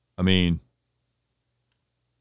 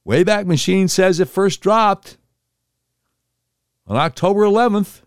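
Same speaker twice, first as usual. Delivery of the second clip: emphatic; 8 semitones higher, 4 dB louder than usual. Real, not acted. Emphatic proof, louder and slower.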